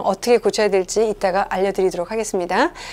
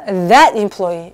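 THAT hit hard and louder, drawn out slowly; slow, loud stress on "That employee"; emphasis on that; 2 semitones lower, 4 dB louder, much slower than usual. Shown as a demonstration. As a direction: lean heavily on THAT to single out the employee. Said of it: "강조하고 싶으세요?".

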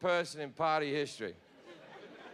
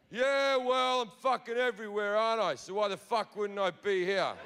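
brash, swaggering God pitched up; God answering like an arrogant party crasher; cocky God; 3 semitones higher than usual. Retold or imitated. God snapping at partygoers, a touch of swagger. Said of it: "Hey, God".

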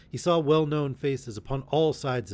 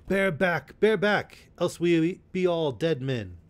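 high, urgent order to retreat; loud cry; 7 semitones higher, 5 dB louder, slower than usual. A narrator's reading. Sheriff calling his men back, loud cry. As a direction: shout it high, slowing on the grim warning. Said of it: "cried the sheriff in a loud voice".

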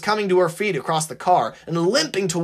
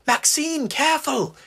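higher sharp caution; insistent warning; 12 semitones higher than usual. Acted. Marcel warning Maxine off the mail, higher and insistent. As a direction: snap a quick warning. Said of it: "insisted Marcel".

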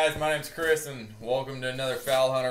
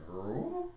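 growled goose who; 3 semitones higher, 5 dB quieter than usual. Shown as a demonstration. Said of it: "I put a little growl in front of it".

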